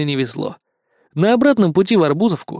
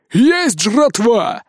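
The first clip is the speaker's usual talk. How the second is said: much higher, slow, drawn-out shout of joy; joyful yell; 7 semitones higher, 3 dB louder, much slower than usual. A narrator's reading. Rat shouting to the horde over found food, joyful. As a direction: holler about the food find. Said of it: "радостно заорала крыса".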